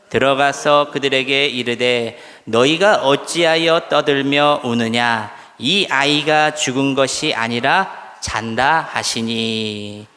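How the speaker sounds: slow, measured verse recitation; congregational scripture reading. Real, not acted. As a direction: lead the room through the verse, stretching phrase endings. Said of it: "함께 봉독합니다".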